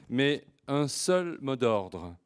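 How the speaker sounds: ordinary talk, nothing marked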